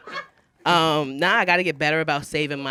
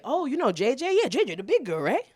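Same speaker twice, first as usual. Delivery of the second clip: mock gossip; 9 semitones higher, 3 dB louder than usual.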